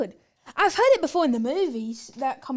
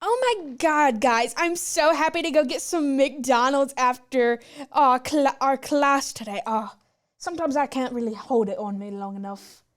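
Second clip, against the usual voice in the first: lightly put-on American accent, valley girl gushing; American accent impression. British girl doing a light American accent for her friend. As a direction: gush like an American student craving McDonald's. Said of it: "our best impressions of an American".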